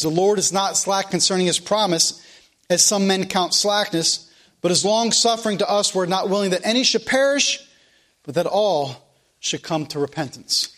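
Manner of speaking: preacher reading the Bible to the congregation; scripture reading. Acted. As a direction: proclaim each verse from the pulpit. Reading Second Peter aloud.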